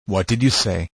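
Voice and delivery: low, understated disbelief; slow, stunned question. A narrator's reading. Man questions the girl's confession, slowly.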